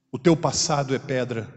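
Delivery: normal talking voice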